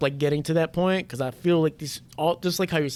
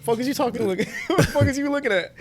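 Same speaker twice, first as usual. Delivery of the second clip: mock tough guy; 6 semitones higher, faster than usual. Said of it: "I said that to the mirror".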